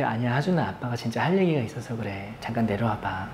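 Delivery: low, soft dad voice; gentle coaxing. Retold or imitated. Dad asking upset son to come out and talk, softly coaxing. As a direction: coax a hurt child softly.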